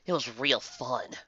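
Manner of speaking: slow, dry sarcasm; deadpan and slow; sarcastic grunt. Acted. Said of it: "Twilight grunted".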